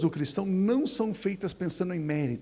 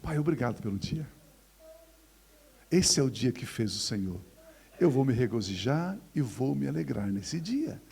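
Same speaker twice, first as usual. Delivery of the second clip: grateful prayer; 5 semitones lower than usual. Retold or imitated. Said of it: "Ou você escolhe levantar".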